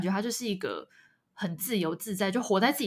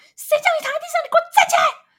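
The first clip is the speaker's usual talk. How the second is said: high, loud, furious, scolding yell. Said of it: "他妈就会这样啪啪啪".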